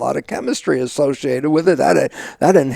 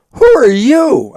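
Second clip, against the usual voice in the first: shocked question; 10 semitones higher, 7 dB louder, slower than usual. Retold or imitated. Wife shocked at his outburst.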